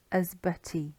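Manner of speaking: "Asbutty" ending on an ee sound; final Y as E. Shown as a demonstration. Teacher showing how Y changes, "Asbutty" ending in ee. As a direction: say "Asbutty" with uh first, ee last. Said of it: "at the end it becomes the E".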